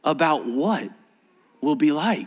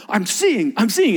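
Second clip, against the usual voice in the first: excited amazement; 3 semitones higher, 3 dB louder than usual. Retold or imitated. Healed blind man acted out.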